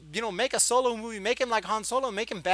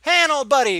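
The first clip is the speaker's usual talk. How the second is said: high, loud imitated welcome; hearty greeting; 6 semitones higher, 10 dB louder, slower than usual. Imitating Lando when Han walks in, hearty greeting. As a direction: call out to an old pal, hammed-up.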